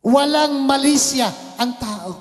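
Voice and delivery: slow, drawn-out sermon emphasis; emphatic preaching. Acted. Preacher driving home man's innocence, slow and emphatic. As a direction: lean on each phrase slowly.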